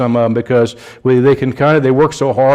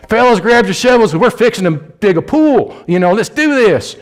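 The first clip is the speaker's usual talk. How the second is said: put-on West Side Indy accent, pitched well higher, hyped trendy preacher; West Side Indy dude; 7 semitones higher than usual. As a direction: play a modern church Jesus as a hyped Indianapolis dude, voice up high. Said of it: "West Side Indy accent".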